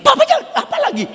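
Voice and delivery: very high-pitched imitation of nagging wife; mock alarm. Wife stops husband at the escalator, high mock alarm. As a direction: squeal the warning in high pitch.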